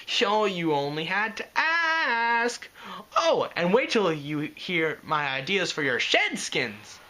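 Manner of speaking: slow, high, bubbly pony voice; bubbly Pinkie voice. Acted. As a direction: bounce through it gleefully. Pinkie laughs and bounces.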